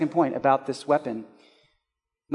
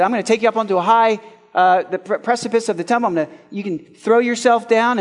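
quick, slightly higher taunting voice; a hint of the devil egging him on; devil tempting; 4 semitones higher, 4 dB louder, faster than usual.

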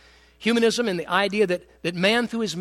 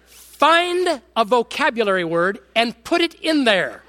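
dad's advice, laughing; 4 semitones higher, 5 dB louder, slower than usual. Retold or imitated. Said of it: "He said".

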